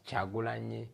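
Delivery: "Chagulanyi" opening with a "ch" sound; "Chagulanyi" with "ch" first and "nyi" last; pronounced variant. Shown as a demonstration. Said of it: "some people pronounce it as".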